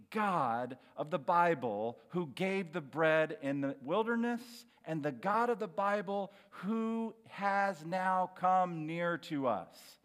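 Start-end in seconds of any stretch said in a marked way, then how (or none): none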